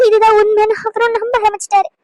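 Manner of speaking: crying. Acted. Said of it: "இப்ப எதுக்கு வீணா அழுதுகிட்டு இருக்க".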